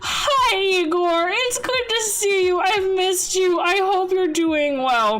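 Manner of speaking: sweet high greeting. Real, not acted.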